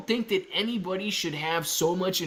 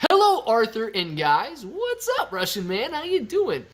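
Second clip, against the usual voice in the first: excited greeting; 6 semitones higher, 4 dB louder than usual. Real, not acted. Greeting a viewer.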